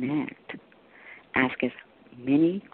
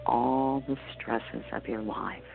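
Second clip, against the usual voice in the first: guided meditation. Acted. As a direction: guide them gently into calm.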